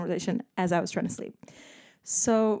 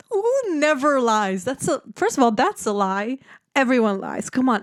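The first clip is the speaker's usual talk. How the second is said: playful indignation; 4 semitones higher, 4 dB louder than usual. Real, not acted. Indignant reaction to his claim.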